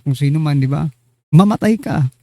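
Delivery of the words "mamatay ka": angry curse. Shown as a demonstration. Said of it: "lalo na kapag galit ka".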